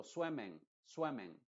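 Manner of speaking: swimming said as swemming with a full E; clear E. Shown as a demonstration. Teacher shows the other wrong swimming. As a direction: say swimming with an open, bright E. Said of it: "como una E".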